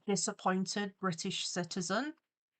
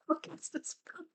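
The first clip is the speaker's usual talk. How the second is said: higher, soft spooky witch voice; witchy voice; 9 semitones higher, 8 dB quieter than usual. Pretend. Casting a spell on Prince John, spooky witch voice. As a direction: croon it like a hammed-up witch casting a hex.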